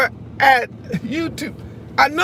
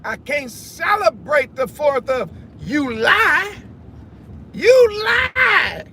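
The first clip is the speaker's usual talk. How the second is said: indignant shout; 4 semitones higher, much slower than usual. Real, not acted. Protesting the Fourth of July.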